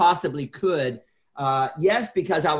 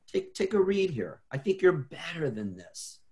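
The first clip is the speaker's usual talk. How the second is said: softer, gentle encouragement; loving nudge; 3 semitones higher, 4 dB quieter than usual. Shown as a demonstration. Friend gently recommending a book, softly and lovingly. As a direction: hand it over softly with care. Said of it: "do it in a loving way".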